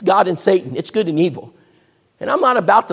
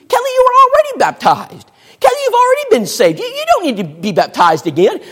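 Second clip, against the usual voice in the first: upset mother; 13 semitones higher than usual. Retold or imitated. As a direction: play the mother aghast at her daughter. Mother scolding daughter over baptism.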